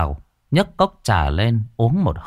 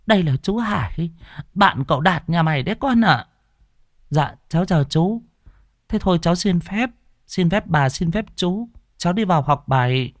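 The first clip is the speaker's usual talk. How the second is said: higher, polite schoolgirl voice; young girl; 7 semitones higher than usual. Acted. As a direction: sweetly excuse yourself. Grandmother and granddaughter voiced.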